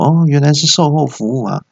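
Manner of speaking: understated acted relief; relieved. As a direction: let a touch of relief into the line. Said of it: "经理就是松了一口气说".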